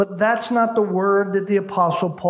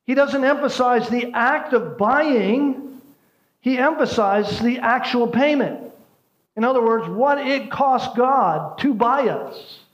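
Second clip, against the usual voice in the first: impassioned preaching; 7 semitones higher than usual. Real, not acted. Preacher driving home the point.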